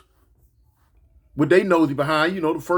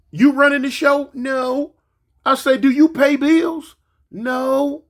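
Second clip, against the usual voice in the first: put-on higher, louder interrogation of a kid; stern loud grilling; 8 semitones higher, 3 dB louder than usual. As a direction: bark the questions at the boy. Grandma grilling grandson.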